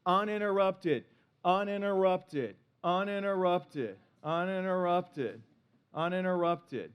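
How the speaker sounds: uninterrupted repeated slowly, each one falling; repeated for emphasis. Shown as a demonstration. Pastor stresses his wife's love language, slowly. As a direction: hammer uninterrupted again and again, slowing. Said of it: "It's like, uninterrupted".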